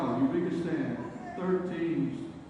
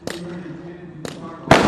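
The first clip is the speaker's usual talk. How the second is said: calling out loudly; 9 dB louder than usual. Real, not acted. Announcer calling teams to start.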